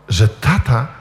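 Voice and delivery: usual speaking voice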